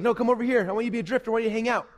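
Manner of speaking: lightly voiced lizard luring; lazy lizard. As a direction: pull them back to the couch. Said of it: "And the lizard's like".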